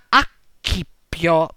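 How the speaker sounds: acchippio with a hard "k", "ak-KI-pio". Shown as a demonstration. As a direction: say acchippio slowly, splitting after the double k. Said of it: "si pronuncia acchippio".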